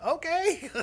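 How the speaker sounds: high, loud comic "okay" shout; hammed-up shouted reply; yelling back. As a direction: holler back agreeably.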